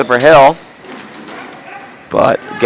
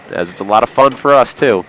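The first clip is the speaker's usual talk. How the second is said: nasal voice. Real, not acted. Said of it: "excuse my nasally voice today".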